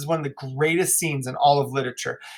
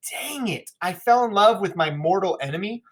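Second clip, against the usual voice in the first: mock frustration; 4 semitones higher than usual. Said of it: "now he's all frustrated".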